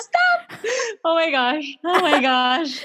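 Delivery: squealing laugh, cringing at memory; high laughing cringe, stop it. Real, not acted. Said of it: "just the secondhand embarrassment is".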